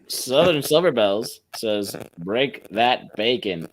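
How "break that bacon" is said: game show announcer. Retold or imitated. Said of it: "That sounds like a, like a game show".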